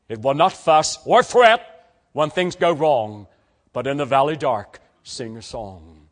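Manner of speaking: measured, rhythmic verse reading; poem recitation. Acted. Preacher to young people reciting a poem on faith, measured. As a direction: recite each line as a creed of trust.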